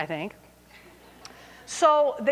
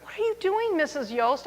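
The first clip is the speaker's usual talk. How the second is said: students taunting the teacher who pranked back; teasing sing-song; 4 semitones higher, 3 dB quieter than usual. Retold or imitated. Mock-innocent students calling after her.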